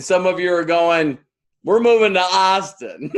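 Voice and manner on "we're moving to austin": excited. Retold or imitated. Mimics excited audience reaction.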